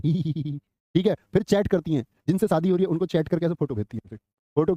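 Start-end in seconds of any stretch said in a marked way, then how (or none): 0.0-0.6 imitated giggle. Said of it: "फिर हंसती है".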